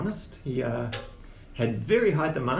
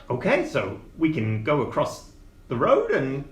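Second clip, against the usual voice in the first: little gnome voice; 3 semitones higher than usual. Acted. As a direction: ease into a small gnome pitch. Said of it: "a little gnome voice".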